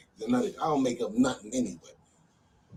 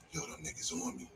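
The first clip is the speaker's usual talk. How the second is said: low, much softer voiceless whisper; fearful whisper; 10 semitones lower, 10 dB quieter than usual. Retold or imitated. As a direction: confide it like you're being watched. Paranoid friend whispering about being followed.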